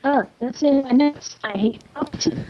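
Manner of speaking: muffled, like speaking through water; bubbly distorted mic sound; underwater. Real, not acted. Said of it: "You sound like you're underwater".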